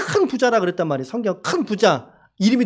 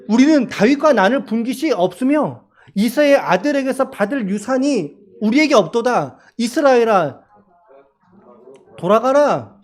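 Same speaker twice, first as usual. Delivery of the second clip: rallying call; 3 semitones higher, 4 dB louder than usual. Acted. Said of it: "나팔을 불어 이르되".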